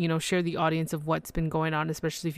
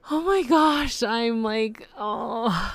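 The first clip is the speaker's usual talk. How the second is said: much higher and louder, squealing with joy; excited squeal; 5 semitones higher, 3 dB louder, much slower than usual. Real, not acted. Podcaster thrilled by her award nomination, squealing excitedly. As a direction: burst out in a giddy high squeal.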